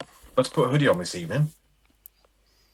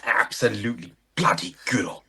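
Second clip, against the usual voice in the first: posh English. Acted. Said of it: "when did people stop speaking like that".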